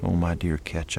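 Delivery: soft, trembling hush; softly comforting a grieving friend; quivering whisper. Acted. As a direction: barely voice it, moved. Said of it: "I whispered, my voice quivering".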